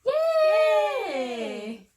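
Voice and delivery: high, loud burst of joy; excited cheer. Real, not acted. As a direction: cheer like you just won. Celebrates finishing count to ten.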